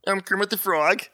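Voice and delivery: lightly voiced puppet frog, a hint of Kermit; a rough practice Kermit impression. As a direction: try out a rough, half-formed Kermit. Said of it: "I do what Kermit the Frog I've been working on".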